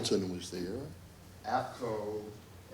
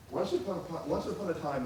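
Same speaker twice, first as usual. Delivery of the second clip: soft, higher fairy-tale lilt; mock storyteller's quiet voice; storybook opening; 6 semitones higher, 8 dB quieter, faster than usual. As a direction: begin a bedtime tale, hushed. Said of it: "telling you a story".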